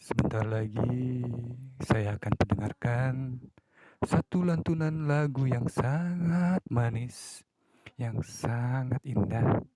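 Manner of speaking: a hint of a mellow radio announcer easing listeners to sleep; late-night radio host. Shown as a demonstration. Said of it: "Kayak contohnya ... suara yang merdu tengah malam". (sedikit gaya penyiar radio tengah malam yang lembut)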